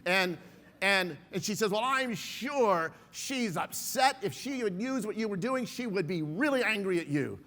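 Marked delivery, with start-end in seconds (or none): 1.7-7.4 retold indignant reply. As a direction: talk down to him, offended. Angry woman argues back.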